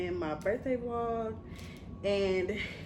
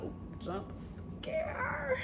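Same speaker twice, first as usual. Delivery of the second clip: mock jump scare; 9 dB quieter, much slower than usual. Mock horror-film jump scare.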